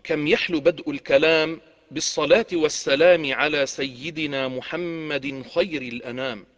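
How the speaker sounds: rhythmic rhymed storyteller opening; arabic cafe storyteller. A narrator's reading. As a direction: recite like a coffeehouse hakawati. Hakawati opening formula.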